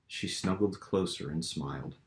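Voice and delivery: measured storytelling voice; story narration. A narrator's reading. Author reading his fantasy novel aloud, steady narration. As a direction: read it like an audiobook chapter.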